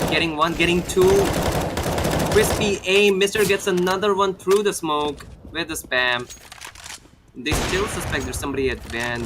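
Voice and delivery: quick, energetic esports commentary that rises with the action; live caster voice over a firefight; play-by-play casting. Acted. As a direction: call the round as it happens.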